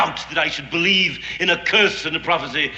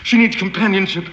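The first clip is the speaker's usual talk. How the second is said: raised, scornful reply; angry retort; 6 semitones higher than usual. Acted. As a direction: snap back in irritation. Heated argument with captive.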